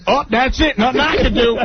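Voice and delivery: high-pitched imitation of a Hispanic-Black accent; Hispanic-Black dialect. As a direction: throw up your hands in Hispanic-Black dialect. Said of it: "it was a mixture between the Hispanic black".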